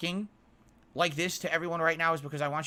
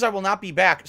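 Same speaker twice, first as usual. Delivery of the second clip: mock Scarface; 5 semitones higher, 9 dB louder than usual. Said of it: "Scarface says".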